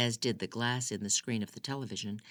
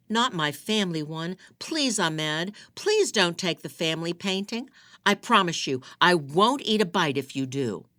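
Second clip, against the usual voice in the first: higher, louder frantic begging; desperate pleading; 6 semitones higher, 8 dB louder than usual. Acted. Wife begging her husband not to take the painting, high frantic plea. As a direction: beg him to spare it, voice climbing.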